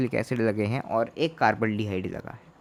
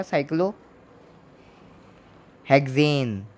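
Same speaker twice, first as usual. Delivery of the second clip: साइक्लोहेक्सेन stretched very slowly, syllable by syllable; drawn-out dictation; much slower than usual. Shown as a demonstration. Teacher slowly reading the ring's name to students. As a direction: spell out साइक्लोहेक्सेन at a crawl.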